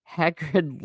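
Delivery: plain reading voice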